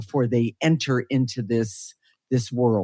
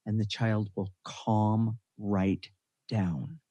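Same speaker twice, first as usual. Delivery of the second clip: calming down; 2 semitones lower, 7 dB quieter, slower than usual. Real, not acted. Describing the child calming in her arms, hushed. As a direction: ease the voice down to a hush.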